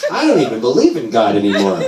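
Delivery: mock mom with big pitch swoops; hammed-up imitation of mom; mom's declaration. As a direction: exaggerate the mother's declaration in wide swoops. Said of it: "She goes".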